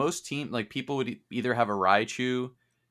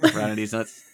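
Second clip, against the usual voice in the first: laughing. Real, not acted. Laughing repeat of line.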